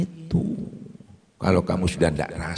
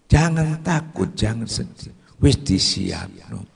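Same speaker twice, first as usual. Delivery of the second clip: bright reassurance; 2 semitones higher, 4 dB quieter than usual. Acted. Preacher calling out brightly to worried listeners. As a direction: lift up the listeners with a bright call.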